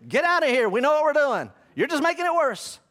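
high, loud mock yell; hammed-up shout to get them gone; exasperated teacher. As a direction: imitate a teacher ordering parents away. Teacher shoos parents, acted out.

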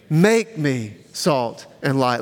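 slow, phrase-by-phrase recitation; measured prayer with pauses to follow; led group prayer. Shown as a demonstration. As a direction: lead the congregation word by word. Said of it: "Would you say this with me".

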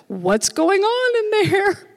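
imitating someone hollering into the room; alarmed call. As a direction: call out as a startled eavesdropper. Imagined person knocking at door.

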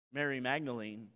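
ordinary talk

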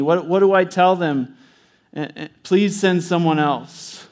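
lightly voiced Moses begging to be let off; a hint of a broken man pleading with God. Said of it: "I picture Moses is like this".

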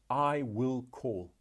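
slow, weighted "I will call"; stress on I WILL. Shown as a demonstration. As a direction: lean on "I will" in "I will call", slowly. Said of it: "Note the emphasis on the words".

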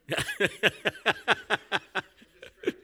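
long high, loud laughing fit; burst of laughter. Real, not acted. Preacher cracks up at an interruption, big laugh. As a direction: crack up in a rapid staccato laugh.

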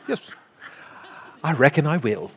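playful mock English accent. Preacher imagining the son's reply, in a playful English accent. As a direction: put on a bit of an English accent. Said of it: "Probably with an English accent".

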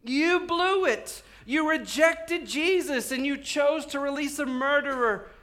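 high, loud, slow accusation; preacher acting an apostle's fierce rebuke; Peter rebuking the crowd. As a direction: lay the blame on them forcefully. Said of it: "Peter's saying".

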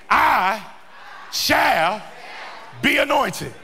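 "I", "shall", "be anointed" delivered as separate firm beats; emphatic declaration. Shown as a demonstration. Preacher modelling conviction for the congregation, "I shall be anointed" emphatically spaced out. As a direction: hold "I", pause, then "shall", pause, "be anointed". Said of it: "to be able to say emphatically".

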